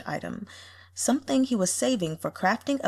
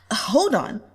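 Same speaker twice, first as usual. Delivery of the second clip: surprised gasp; 7 semitones higher, 4 dB louder, slower than usual. Acted. Gasping commenter.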